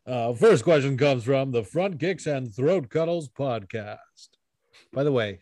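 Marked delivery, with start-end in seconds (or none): 0.1-4.3 slow radio announcer voice. Acted. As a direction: read it like a radio DJ. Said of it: "super radio voice just now".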